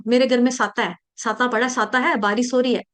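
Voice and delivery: साता for छाता, बारिस for बारिश; devotee's "s" slip in साता; mimicked mispronunciation. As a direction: imitate swapping "s" into साता and बारिश. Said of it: "साता नहीं बोलते ना".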